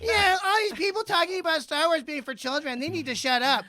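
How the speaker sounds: high, snide mock whine; mimicking a passive aggressive fan post. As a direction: sneer like a wounded poster. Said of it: "do a separate post about me, passive aggressively".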